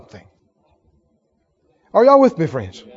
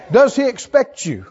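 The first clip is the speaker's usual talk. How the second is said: ordinary talk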